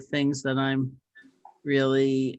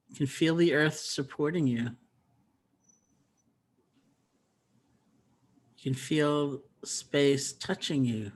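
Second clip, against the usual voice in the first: calm, even voice with long restful pauses; unhurried meditation teacher's voice; guided meditation. Acted. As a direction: gently guide listeners, leaving space between phrases.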